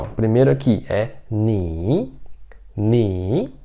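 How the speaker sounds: "ni" with a dipping third tone; Mandarin third tone. Shown as a demonstration. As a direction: model "ni" in the third tone. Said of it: "Vamos pra pronúncia aqui". ("ni" no terceiro tom)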